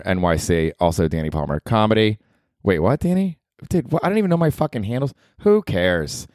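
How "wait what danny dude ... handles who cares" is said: higher mocking heckler voice.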